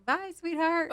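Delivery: high, lilting mock farewell; exaggerated phone sign-off; acted sweet goodbye. Acts out the almost-said farewell.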